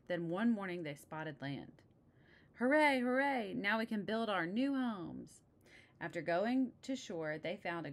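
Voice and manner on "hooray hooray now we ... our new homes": high, loud cheer slowing into a glad line. Acted. Pilgrim bears cheering at the sight of land, loud and high. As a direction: shout hooray with joy, then savour it.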